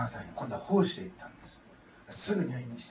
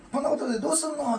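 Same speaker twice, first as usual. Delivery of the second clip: high, loud cheerful teasing; bright laughing tone; 9 dB louder than usual. Retold or imitated. Mother laughing off her pastor son's shock, bright and loud. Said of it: "って明るく笑うんですよね".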